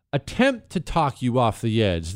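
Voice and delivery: ordinary talk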